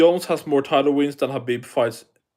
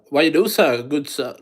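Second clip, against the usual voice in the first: a light, tentative stab at an Irish accent; hint of an Irish accent; attempted Irish accent. Shown as a demonstration. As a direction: try out an Irish accent, half-heartedly. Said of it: "can't I do an Irish accent".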